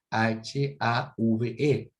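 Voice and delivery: H A V E, letra por letra, despacio; deletreando. Shown as a demonstration. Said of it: "se escribe have". (deletreo lento de "have")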